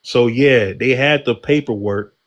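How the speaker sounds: weak attempt at a New York accent. Shown as a demonstration. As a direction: try on a New York accent, half-hearted. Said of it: "I can't do the New York accent".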